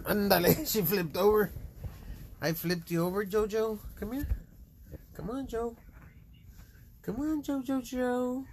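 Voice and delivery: high sing-song cat calling; coaxing the cat in a high voice; calling a pet. Real, not acted.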